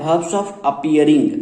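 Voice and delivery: very slow, heading drawn out. Shown as a demonstration. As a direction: announce the next topic slowly. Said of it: "अगला क्या है".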